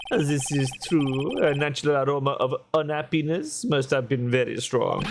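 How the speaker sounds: lightly put-on French accent, café owner voice. Café owner telling the lawyer what happened, light French accent. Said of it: "I hate doing the accent".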